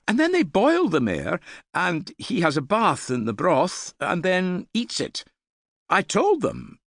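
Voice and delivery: put-on high, fast, keen boy's voice; a young lad bursting to share his news; eager young lad. A narrator's reading. Young man telling the hall about a king-making, eager and high.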